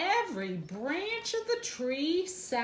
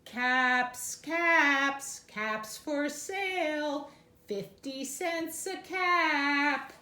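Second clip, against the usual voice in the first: peddler calling; slower than usual. Acted.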